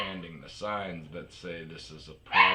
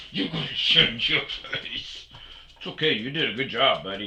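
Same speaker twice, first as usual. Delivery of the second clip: pet talk; 5 semitones higher, 3 dB louder than usual. Real, not acted. Talking to his dog.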